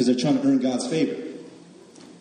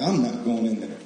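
mock sulky refusal. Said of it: "this one angry, he was like".

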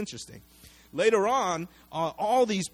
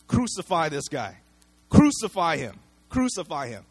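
louder, hammered chant of crucify; crowd demanding; 6 dB louder than usual. Retold or imitated. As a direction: spit it out like an angry mob. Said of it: "the same crowd who say".

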